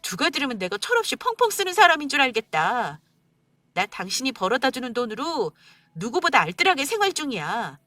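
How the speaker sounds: wife tearfully confronting husband on mother's birthday. Acted. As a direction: pour out the hurt, close to crying.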